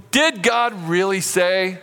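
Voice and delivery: insinuate doubt, sly and teasing; sneaky serpent. Acted. Serpent questioning God's word to Eve, sly and mocking. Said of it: "What a sneaky thing to say".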